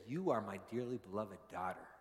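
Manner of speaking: tender fatherly declaration, lightly voiced; God speaking tenderly. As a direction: quietly assure a beloved child. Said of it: "God uses my voice to say".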